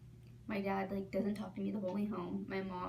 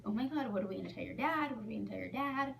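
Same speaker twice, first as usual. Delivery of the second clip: panicked mom; faster than usual. Retold or imitated. Panicking mother.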